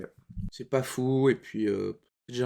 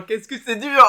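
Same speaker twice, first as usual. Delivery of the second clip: strained exclamation; 8 semitones higher, 10 dB louder than usual. Real, not acted. Holding in a burp.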